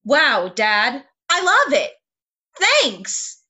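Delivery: bright, excited line reading; bubbly reading. Pretend. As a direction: read it bubbly and upbeat. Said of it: "yes, please say it".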